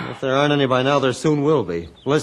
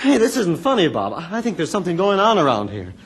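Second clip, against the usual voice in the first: higher, louder annoyed warning; 5 semitones higher, 4 dB louder than usual. Acted. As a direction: tell him it isn't funny. Friend laughs off danger.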